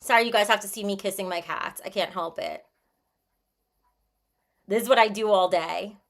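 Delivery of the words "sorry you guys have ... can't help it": ordinary delivery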